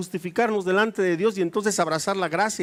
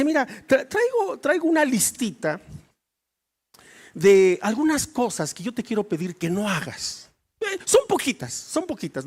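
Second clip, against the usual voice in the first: playful wife; 2 semitones higher than usual. Retold or imitated. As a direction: sweet-talk him with a little list. Esposa pide favores al marido. (esposa pidiendo con dulzura, más aguda)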